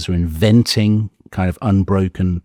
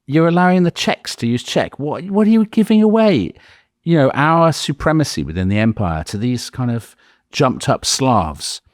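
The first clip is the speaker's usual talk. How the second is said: high, indignant mock outrage; outraged German nationalist; 7 semitones higher than usual. German speaker scoffing at Czechs allowed their language, indignant. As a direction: scoff at it as if betrayed, pitched well up. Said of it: "the German speakers say".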